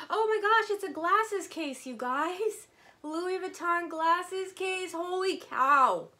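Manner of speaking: high, loud, slow delighted shrieks; shrieking excitement. Real, not acted. Shrieking in delight at a Louis Vuitton glasses case. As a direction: shriek with joy at the find.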